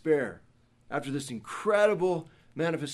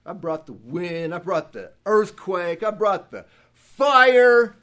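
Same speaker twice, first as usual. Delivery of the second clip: mock exasperated God; 2 semitones higher, 9 dB louder than usual. God's imagined angry rebuke.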